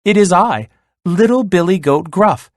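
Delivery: high little goat voice; tiny voice. A narrator's reading. Smallest goat answering the troll, tiny high voice. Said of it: "in a tiny voice".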